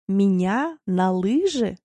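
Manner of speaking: slow, suspicious question; a cat sensing danger, slowly and warily; wary cat. Acted. Barsik the cat hears about skiing, slow and wary. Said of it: "насторожился Барсик".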